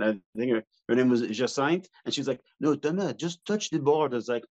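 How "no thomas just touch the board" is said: imitated French-accented coaxing. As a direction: coax him with a put-on French accent. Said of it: "had this really French accent".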